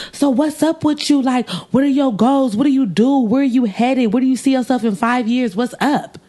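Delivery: high, prying rapid-fire questions; mock interviewer tone. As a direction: grill the driver like a job interview in a put-on voice. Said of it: "in that tone and everything".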